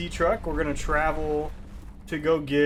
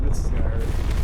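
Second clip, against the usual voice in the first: bracing for pain; 4 semitones lower, 8 dB louder than usual. Retold or imitated. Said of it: "I was like".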